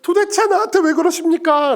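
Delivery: high, protesting plea to God; lamenting Job. Acted. Job asking God why he suffers, pleading complaint. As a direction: cry out in complaint, voice lifted. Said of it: "욥도 똑같이 말하죠".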